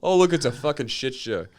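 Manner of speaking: mock the show in Fargo dialect; bad Fargo accent. Co-host mocks his own accents, bad Fargo accent. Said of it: "a guy can't do accents".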